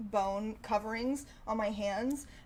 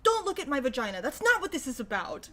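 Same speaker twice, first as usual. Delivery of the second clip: much higher and louder, slowed, a hammed-up complaint; mock outraged; 9 semitones higher, 6 dB louder than usual. Telling off imagined commenters, hammed-up outrage. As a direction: play the furious activist scolding the comments. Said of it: "I'm like".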